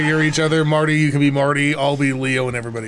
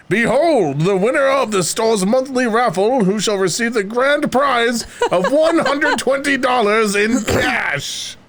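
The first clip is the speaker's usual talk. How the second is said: higher, slow grand prize announcement; booming prize announcer; 8 semitones higher, slower than usual. Acted. Stranger announces raffle prize.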